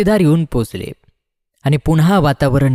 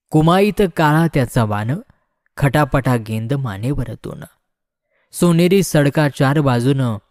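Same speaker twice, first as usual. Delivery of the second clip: measured, metrical verse reading; ballad verse recitation. Acted. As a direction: recite it line by line, drawing out some phrases.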